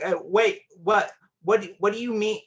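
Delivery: high, rattled stammer of disbelief; flustered confusion. Retold or imitated. Boyfriend chasing girlfriend after lunch, flustered and high. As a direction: scramble after her, confused and pleading.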